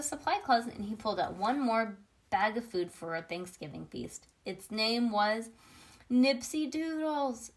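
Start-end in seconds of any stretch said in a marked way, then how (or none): 6.1-7.5 high, drawn-out cry of delight; mild excited shout. A narrator's reading. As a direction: call it out high and slow, not full volume. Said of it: "shouted Lenny".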